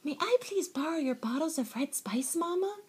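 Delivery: high, sweetly polite request; polite asking. A narrator's reading. Kitten asks Mama for spice, politely. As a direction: ask nicely, lifting up at the end. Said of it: "he asked politely".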